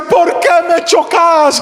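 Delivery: mock yell of the hit thief; thief's yell. Pastor imitates the thief yelling at him. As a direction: shout it slow like the thief who got hit.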